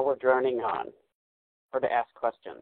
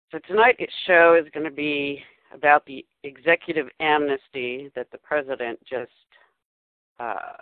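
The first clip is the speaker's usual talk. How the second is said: over the top. Acted. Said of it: "you sound so, um, over the top there".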